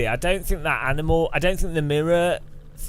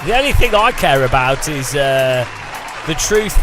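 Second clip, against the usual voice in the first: passionate declaration. Shown as a demonstration. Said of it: "That's more passion, more energy".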